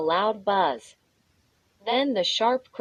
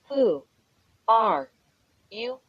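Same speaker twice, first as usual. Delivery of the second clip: shriek. A narrator's reading. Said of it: "I shrieked".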